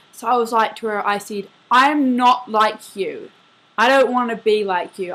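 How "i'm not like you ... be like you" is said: louder, slowed mock confrontation; emphatic retort. Dreamer retelling what she said to the murderer, emphatic retort. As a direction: push each word out firmly and louder.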